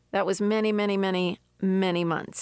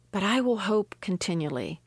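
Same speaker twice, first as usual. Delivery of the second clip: scripture reading; 2 semitones lower than usual. Acted. Preacher reading the psalm to her listeners, measured and prayerful. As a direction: read the verses prayerfully. Reads Psalm seventy-one aloud.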